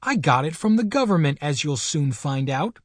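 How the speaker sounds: put-on a child insisting he is right; defiant boy. Benjamin answering the colonel.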